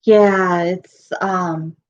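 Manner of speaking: losing voice, rough and strained; hoarse voice. Real, not acted. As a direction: talk through a failing voice. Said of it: "I'm losing my voice".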